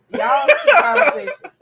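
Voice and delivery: high, loud, slow and laughing. Retold or imitated. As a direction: laugh it out in disbelief. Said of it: "I was like this".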